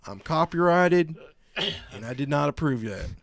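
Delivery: imitating the redneck who claims he's copyrighted, loud and high; angry redneck. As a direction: rant like a self-important redneck. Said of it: "And he goes".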